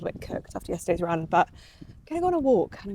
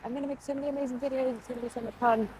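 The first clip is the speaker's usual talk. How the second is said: imitating past excitement; 4 semitones higher, 5 dB quieter, faster than usual. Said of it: "I honestly came here like".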